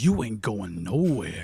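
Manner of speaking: very low, deep, big brute rhino voice. Game master voicing a rhino grabbing a player: voicing the rhino. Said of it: "The rhino grabs you and goes".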